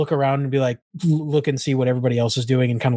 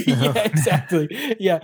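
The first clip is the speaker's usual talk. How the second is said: laughing agreement; 5 semitones higher than usual. Real, not acted. Agreeing while still laughing.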